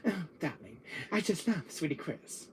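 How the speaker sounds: put-on soft, campy lovestruck gay accent; lightly put-on camp gay accent. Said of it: "give me that gay accent".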